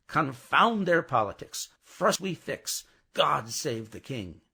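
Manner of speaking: proud slow loyal toast; staunch patriotic declaration. Acted. Miss Pross's maxim.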